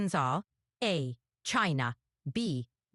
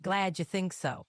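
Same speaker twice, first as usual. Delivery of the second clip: folksy Southern twang; hillbilly accent. Pretend. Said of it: "You're a hillbilly girl".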